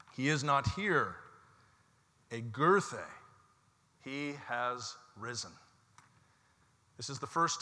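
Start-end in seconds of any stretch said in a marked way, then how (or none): 0.1-5.5 proclaiming. Acted. Angels at the tomb proclaiming the news, ringing then hushed. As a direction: ring out "He is not here", then soften. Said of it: "they announce".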